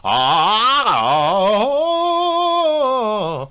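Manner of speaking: loud, open "아"; pressure voice demo. Shown as a demonstration. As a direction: show the pressure-driven "아". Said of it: "이런 식인 거야". (압력으로 내는 "아" 소리 시범)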